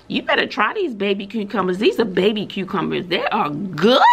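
talking between bites; chewing noisily. Real, not acted. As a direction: mouth full of cucumber. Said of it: "Excuse my eating".

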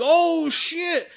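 high, loud mock gasp of shock; shocked exclamation. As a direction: voice the stunned bystanders.

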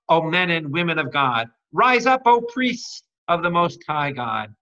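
pray, then build to a rallying call; prayer building to preaching. Acted. Preacher praying for listeners, building to a rousing call.

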